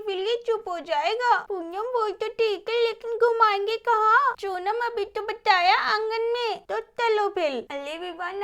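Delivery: lightly voiced young girls hushing a baby; little girls soothing. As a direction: coax the crying baby like a small girl would. Girls soothe crying baby Vivan. (हल्की सी बच्ची की आवाज़ में बच्चे को चुप कराना)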